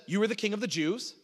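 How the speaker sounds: statement lifted into a question on "Jews"; rising intonation. Acted. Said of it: "kind of the rising intonation in your voice".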